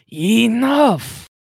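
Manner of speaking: high, loud in-character shout; sudden yell. Acted. Villain cutting everyone off, sudden yell. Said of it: "he suddenly yells".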